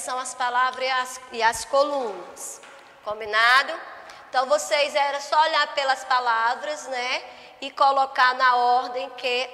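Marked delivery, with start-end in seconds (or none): none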